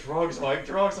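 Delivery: high, loud mock panic; imitated hysterics. Quoting his brother on drugs to friends, mock hysterical. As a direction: imitate a frantic blurt down the phone. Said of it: "That's what he says".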